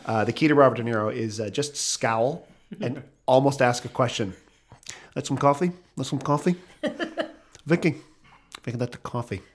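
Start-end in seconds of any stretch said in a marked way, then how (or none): 5.2-9.4 Brando. Retold or imitated. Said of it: "I sound like Brando".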